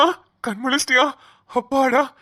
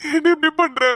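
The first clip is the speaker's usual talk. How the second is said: crying plea; 2 semitones higher than usual. Acted. Begging unconscious lover to wake.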